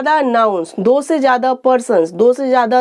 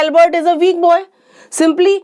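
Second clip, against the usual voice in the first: slow example; 4 semitones higher, much slower than usual. Shown as a demonstration. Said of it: "हमने इसमें कहा था".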